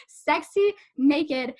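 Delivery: slow, teasing sexy drawl; sultry drawl. Pretend. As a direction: stretch each word out, slow and sultry. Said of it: "My sound effects".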